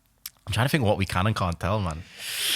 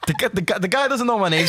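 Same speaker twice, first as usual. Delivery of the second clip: real laughter breaking into higher-pitched words; laughing; 9 semitones higher than usual. Real, not acted. Telling friends the guy doesn't know his name, cracking up. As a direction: stammer it out while cracking up.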